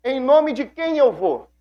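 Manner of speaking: high, anxious pleading voice; worried Moses. Retold or imitated. Moses, worried, asking God how to face the people. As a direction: fret aloud, voice climbing high and slow. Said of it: "Aí ele preocupado fala".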